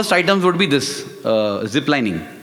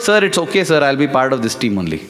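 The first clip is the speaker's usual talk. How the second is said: frustrated reply; 3 semitones lower, faster than usual. Retold or imitated. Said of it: "I said it with a kind of frustration".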